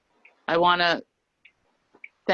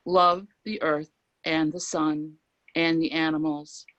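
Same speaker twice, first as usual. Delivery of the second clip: unhurried recital, pausing between lines; poem reading. Acted. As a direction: let each line land with weight. Reads a Whitman poem aloud.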